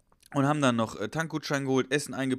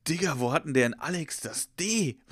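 baffled disbelief; 2 semitones higher than usual. Retold or imitated. Baffled reaction to colleague's misspelling.

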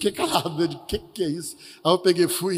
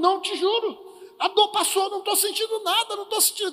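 high, excited disbelief that the pain is gone; healed man telling his wife in high amazement; amazed; 11 semitones higher than usual. Retold or imitated. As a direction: sound stunned and overjoyed.

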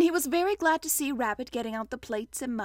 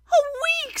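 mildly gloomy exclamation; 6 dB louder than usual. A narrator's reading. Pooh facing a week stuck, gloomy. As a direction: echo it in dismay. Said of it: "said Pooh gloomily".

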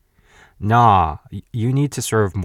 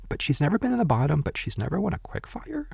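incredulous; 9 semitones higher, 4 dB quieter, faster than usual. Real, not acted. Incredulous about chef's record.

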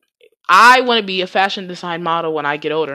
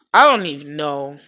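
whispered aside, giving up; a tired whisper to herself; 4 semitones lower than usual. Real, not acted. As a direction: breathe it out under your breath. Trailing off in disbelief.

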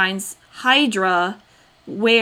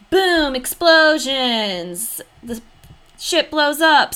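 dramatic; 5 semitones higher, 4 dB louder, much slower than usual. Acted. Dramatic recap of the explosion.

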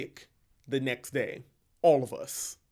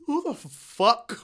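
slow, louder mock indignation; who does he think he is, spelled out slowly; indignant retort; 4 semitones higher, 6 dB louder, slower than usual. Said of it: "I chuckled to myself 'cause I was like".

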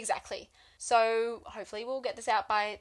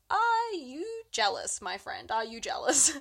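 teasing; 3 semitones higher than usual. Retold or imitated. Lou teasing Jean-Luc.

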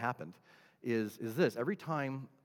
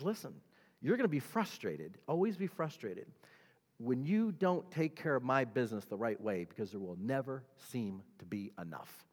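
quiet warning; 5 dB quieter than usual. Acted. Voices God warning, voice dropped.

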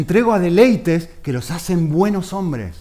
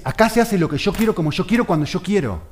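put-on high, louder voice of a spoiled boy; defiant child king; 5 semitones higher, 4 dB louder than usual. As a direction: declare it like a little tyrant. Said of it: "y dice".

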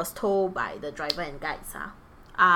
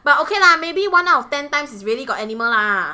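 laughing; 6 semitones higher, 11 dB louder, faster than usual. Real, not acted. Laughing punchline.

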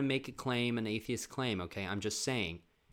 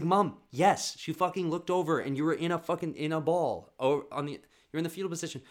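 insisting loudly; 4 semitones higher, 4 dB louder than usual. Retold or imitated. Kids insisting to mom.

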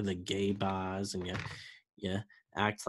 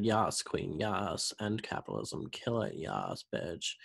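mock cheering, fading to breathy whisper; 2 semitones lower, 7 dB quieter than usual. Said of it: "everyone's like".

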